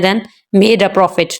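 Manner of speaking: "made a profit" as its own falling group; separate phrase after pause. Shown as a demonstration. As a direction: finish profit as a statement. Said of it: "हम pause देते हैं". (विराम के बाद made a profit अलग से)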